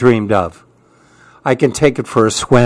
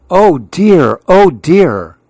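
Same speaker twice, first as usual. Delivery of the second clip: dismayed; 3 semitones higher, 3 dB louder, slower than usual. Acted. Monkey sees moon in well.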